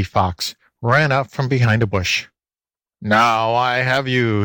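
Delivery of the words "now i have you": mild fox howl. A narrator's reading. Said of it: "he howled".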